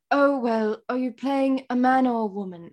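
imitated British accent. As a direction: ask it like a Brit, rough British accent. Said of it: "my British accent is crap now".

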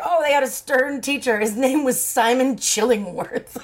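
lightly mimicking the author's prim telling; mock prim author. Friend mocks the author naming the stern teacher, prim read. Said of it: "she was like".

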